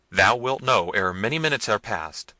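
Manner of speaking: a prince menacing his wife; cruel. A narrator's reading. Manfred threatening Hippolita, cruel and loud. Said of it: "said the cruel prince".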